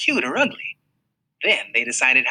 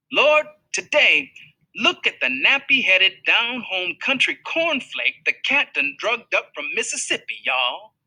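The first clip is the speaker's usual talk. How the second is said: mocking bully; 8 semitones higher than usual. A narrator's reading. Larry Dunn mocking the new boy from Mississippi, high jeering. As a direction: hoot it out to make the whole bus laugh.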